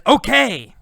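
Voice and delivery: high, bright eager agreement; eager okay. Acted. Carlos eagerly agreeing to the girl's deal. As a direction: agree at once, smitten. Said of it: "Carlos says".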